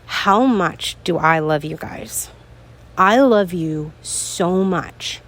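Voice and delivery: slow, tender and sincere; heartfelt thanks. Real, not acted. Host tenderly thanking her podcast listeners, slow and sincere. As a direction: pour out gratitude gently, slowly.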